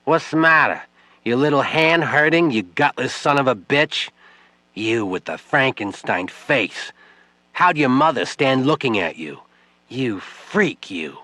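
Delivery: mock his pain cruelly; vicious taunting. Widow taunting Webb about his hurt hand, vicious.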